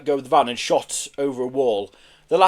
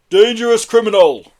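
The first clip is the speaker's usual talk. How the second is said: loud, higher denunciation; echoing accusation; 7 semitones higher, 9 dB louder than usual. A narrator's reading. Herb backing up Pelly's accusation, loudly echoing. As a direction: chime in emphatically. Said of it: "echoed Herb".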